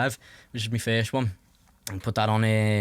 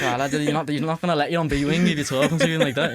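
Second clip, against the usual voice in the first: higher retold reply through laughter; amused, pitched-up mock caution; laughing warning; 5 semitones higher, 4 dB louder than usual. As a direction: act out the warning while cracking up.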